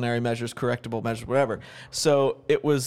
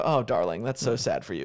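lower, softening mock pity in an American accent; demeaning darling; 4 semitones lower than usual. Shown as a demonstration. American trying a demeaning British-style putdown, condescending mock pity. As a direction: condescend with "darling", letting it drop. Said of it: "call somebody darling in a demeaning way".

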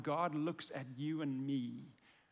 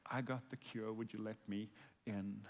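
soft invitation; 5 semitones lower, 7 dB quieter than usual. Pretend. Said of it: "And he's going".

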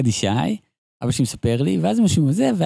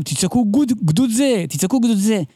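mildly raised, higher mock scout call; retold drill call; 5 semitones higher than usual. Son quoting the scouts' drill orders, mock yell. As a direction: imitate a troop drill order, only half shouted. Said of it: "ואומרים, 'תצעקו".

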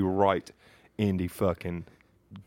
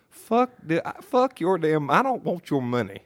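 angry outburst; 7 semitones higher, slower than usual. Retold or imitated. Angry reply to dad's offer.

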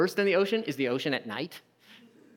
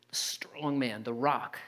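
whispered softly; 4 semitones lower, 7 dB quieter, slower than usual. Real, not acted. Preacher lowering to a whisper about Peter. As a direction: breathe it out in a whisper. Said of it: "whispered ironic emphasis".

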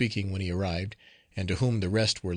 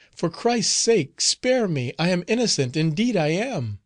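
choked with fear; 7 semitones higher, 3 dB louder than usual. Acted. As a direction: beg for mercy, voice choking with fear. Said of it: "her voice was almost choked with fear".

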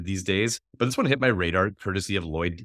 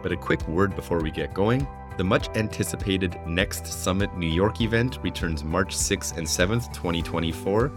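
ad read. Acted. Host reads sponsor ad.

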